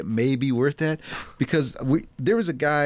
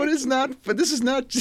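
much higher mock shout; retold angry retort; 11 semitones higher than usual. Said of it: "I was so mad".

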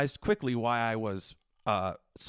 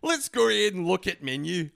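loud, high, overdone Scottish brogue; hammed-up, pitched-up Scottish accent; put-on Scottish accent; 6 semitones higher, 6 dB louder than usual. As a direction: lay on a bad Scottish accent, dropping words. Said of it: "I'm dropping words out".

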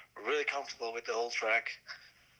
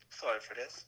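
rough, quiet, scratchy voice; apologetic, voice nearly gone; hoarse voice; 4 dB quieter than usual. Real, not acted. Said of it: "the bad voice".

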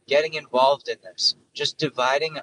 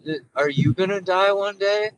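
small child's anxious question, acted higher; worried five-year-old; 6 semitones higher, 3 dB louder than usual. Five-year-old asks dad about dying, mock-anxious. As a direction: ask it high, like a kid just realising. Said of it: "conversation with your dad as a five-year-old".

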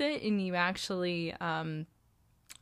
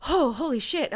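retold surprise; 5 semitones higher, 6 dB louder than usual. Retelling sudden emotion.

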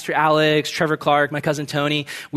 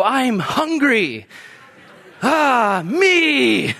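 mock groggy self; 6 semitones higher, much slower than usual.

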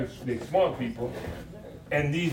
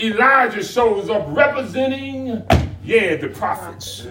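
rhythmic sermon explanation; full-voiced preaching; 6 semitones higher, 9 dB louder than usual. Pastor telling the church what Elijah represents, preaching.

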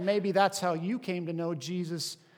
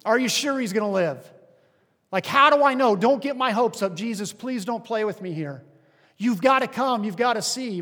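anxious pleading; 3 semitones higher, 6 dB louder than usual. Pretend. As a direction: beg for reassurance, hopes barely held. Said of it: "I'd been like".

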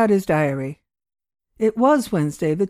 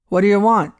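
curt; 6 dB louder than usual. Acted. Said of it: "asked Thompson curtly".

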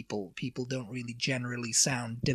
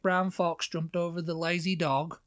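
Cornish accent; 2 semitones higher than usual. Shown as a demonstration. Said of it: "It's very rolling your R's".

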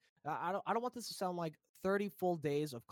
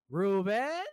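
lightly voiced stern mom; a hint of a questioning mother; mom impression; 6 semitones higher, 6 dB louder than usual. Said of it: "your mom impression is so great".

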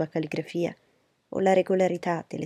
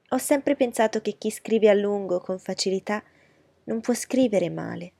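fawning society lady; 3 semitones higher, 4 dB louder than usual. Acted. Miss Bingley voiced.

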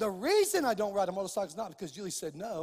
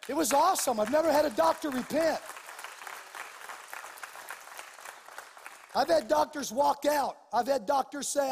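higher, driving preacher's delivery; impassioned preaching; 5 semitones higher, 5 dB louder than usual. Real, not acted. Preacher challenging the congregation on doubt, impassioned preaching. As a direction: preach with force, building to a loud declaration.

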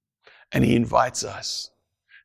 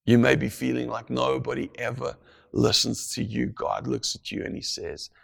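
normal talking voice

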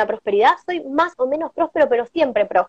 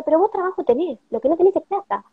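angel voice; 5 semitones higher than usual. Retold or imitated. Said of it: "Y me decía".

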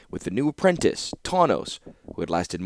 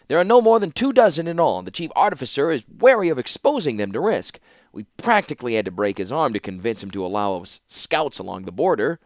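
put-on high fretful old man voice; Rusko's voice; 4 semitones higher, 4 dB louder than usual. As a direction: pitch up high as an anxious old clockmaker. Rusko complains to the council.

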